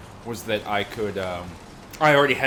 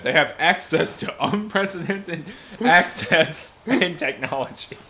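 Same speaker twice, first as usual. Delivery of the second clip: slow teasing repeat, laughing; mocking repeat; 5 semitones higher, 4 dB louder, slower than usual. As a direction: slowly mimic the phrase, amused. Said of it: "repeat what you just said".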